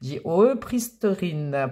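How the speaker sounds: slow, careful German attempt; drawn-out amateur German pronunciation; German accent. Real, not acted. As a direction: read it haltingly in French-accented German. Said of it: "Pardon pour l'accent".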